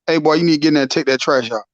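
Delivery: a dad's order rattled off fast and low-key; quick dad order. Retold or imitated. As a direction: reel it off quickly like a busy dad. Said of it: "Or he say".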